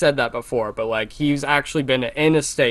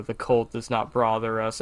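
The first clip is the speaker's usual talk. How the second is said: brooding; 4 semitones lower, 4 dB quieter than usual. Retold or imitated. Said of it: "broodingly says".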